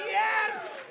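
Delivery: high, loud shout of triumph; jackpot yes. Retold or imitated. Comic recalling his jackpot win, loud, high whoop.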